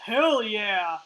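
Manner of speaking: loud, gung-ho whoop; excited cheer. Acted. Player eager for the experimental weapon, loud excited cheer. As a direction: punch it out with loud relish.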